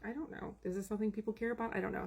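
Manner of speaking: softly, not sure anyone cares; hesitant quiet doubt. Retold or imitated. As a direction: murmur it doubtful. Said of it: "And I'm like".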